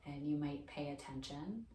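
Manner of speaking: calm, unhurried meditation guidance with long pauses; guided meditation. Acted. Teacher guiding listeners lying down through mindfulness, calm guided meditation. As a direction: ease them gently through a body scan, pausing between phrases.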